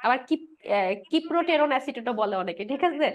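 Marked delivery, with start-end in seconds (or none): 1.1-2.1 কিপ্রোটেরন with "কি" at the start instead of "সাই"; alternative pronunciation. Shown as a demonstration. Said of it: "আমি সাইপ্রো বলি আবার কিপ্রো বলি". ("কি" দিয়ে শুরু করে "কিপ্রোটেরন" উচ্চারণ)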